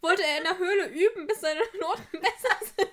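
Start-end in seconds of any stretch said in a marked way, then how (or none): 1.3-2.9 breaking into a real laugh mid-question; amused, laughter creeping into the words. Real, not acted. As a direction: start to crack up while asking. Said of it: "Wahrscheinlich lacht gerade niemand außer uns".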